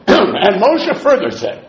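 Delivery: slow, mock formal citing; mock pompous quote. The teacher mocks the idea of constant quoting, slow mock formality. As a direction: sarcastically act out the formula. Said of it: "he said".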